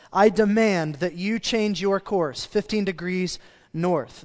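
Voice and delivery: hammed-up outraged navy captain. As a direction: puff up and demand it. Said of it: "Outraged, the captain spoke loudly".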